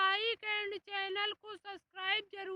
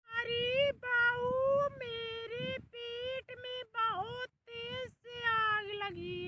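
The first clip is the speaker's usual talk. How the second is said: loud call; 3 semitones higher, 3 dB louder, slower than usual. Acted. Mother-in-law calls out.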